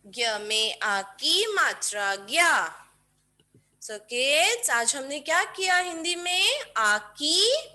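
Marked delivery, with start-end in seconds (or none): 0.0-2.5 a quicker, firmer repeat of the syllable; quicker dictation. Shown as a demonstration. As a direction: say it once more, briskly. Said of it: "बोल बोल के लिखेंगे kids".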